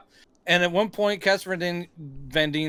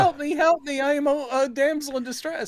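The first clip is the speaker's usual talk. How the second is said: mock damsel; 8 semitones higher than usual. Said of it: "She literally becomes just like".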